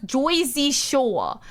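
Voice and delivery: "Jersey" drawn out slowly as "Joy-zee"; Joyzy pronunciation. Acted. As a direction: stretch "Jersey Shore" slowly with an "oy" in "Jersey". Mocks the show's accented name.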